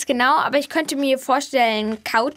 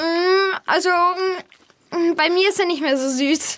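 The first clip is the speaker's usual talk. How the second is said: chewing gum; 3 semitones higher, slower than usual. Real, not acted. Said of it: "mit deinem Kaugummi im Mund gerade".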